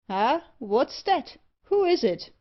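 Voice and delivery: slow start, then a high, loud question; startled cry. A narrator's reading. Barber reacts to his screaming magpie, crying out. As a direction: call out in mild alarm. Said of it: "cried Trigg".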